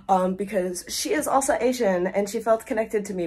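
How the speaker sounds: put-on a light, offhand Asian accent; barely-there Asian accent impression. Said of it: "Why did I say that in an accent?".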